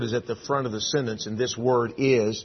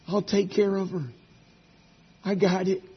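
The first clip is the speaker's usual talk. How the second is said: suddenly softer, settling down after the urging; imitating son's reassurance; 5 semitones higher, 3 dB quieter than usual. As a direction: quietly take the load off Dad. Quotes son reassuring his father.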